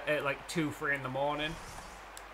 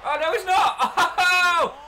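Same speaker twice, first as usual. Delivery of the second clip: laughing disbelief; 13 semitones higher, 9 dB louder, slower than usual. Real, not acted. Runner trips on the bases.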